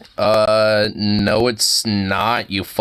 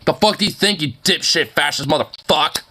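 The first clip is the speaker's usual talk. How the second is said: angry; 5 semitones higher than usual. Real, not acted. Ranting at Walsh.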